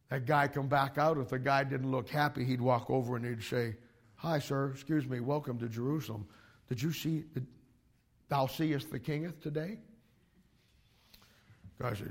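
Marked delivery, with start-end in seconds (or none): 4.1-9.8 soft, smooth flattering voice; a quiet schemer sweet-talking a stranger; Absalom's sweet-talk. Retold or imitated. Absalom softly flatters an unhappy visitor at the gate, smooth and sly.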